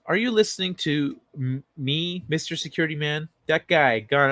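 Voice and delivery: lightly performed comic quote; first, milder take of a quoted bit; quoted line. Acted. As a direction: recite the catchphrase with restraint, close to your own voice. Comic quote, first of two takes.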